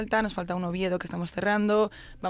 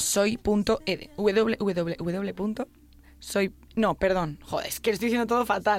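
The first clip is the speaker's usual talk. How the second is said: jittery, tripping over the words; wired on coffee, stumbling; too much caffeine; slower than usual. Real, not acted. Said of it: "ya me he tomado dos cafés".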